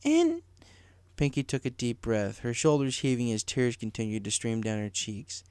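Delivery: very high, tearful pony voice; sobbing Pinky. A narrator's reading. Pinky confessing to Rainbow, tearful. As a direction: confess through tears, slowly.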